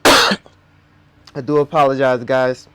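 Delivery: speech hampered by new braces; talking around braces, a bit awkward. Real, not acted. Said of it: "I'm wearing my braces, and so it's very hard to speak".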